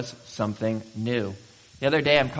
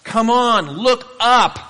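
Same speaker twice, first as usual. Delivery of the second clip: higher and louder, urging them on; eager coaxing; 4 semitones higher, 8 dB louder than usual. Retold or imitated. God urging discouraged believers to look up, eager and loud. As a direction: call out like God coaxing a breakthrough. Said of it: "God at just that very point where he says".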